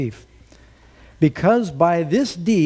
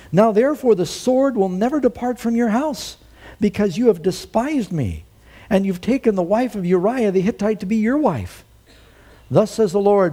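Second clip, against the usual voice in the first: higher and louder pronouncement; prophetic judgment; 7 semitones higher, 4 dB louder than usual. Retold or imitated. Nathan pronouncing God's judgment on David, loud. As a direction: pronounce the sentence with force.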